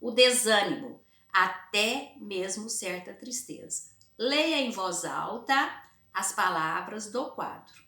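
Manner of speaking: slow, emphatic teacher read-aloud; measured classroom dictation pace, key words leaned on. Acted. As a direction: read the passage slowly for the class.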